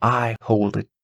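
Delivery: lightly voiced, kindly old lady giving counsel; a grandmother reassuring a child; wise old lady. Old lady instructs Irene.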